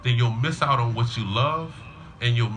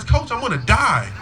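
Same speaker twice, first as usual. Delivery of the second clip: high, loud mock wail; hammed-up child's despair, played for laughs; imitated crying kid; 11 semitones higher, 6 dB louder than usual. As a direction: wail melodramatically like a worn-out kid. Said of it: "and he's crying".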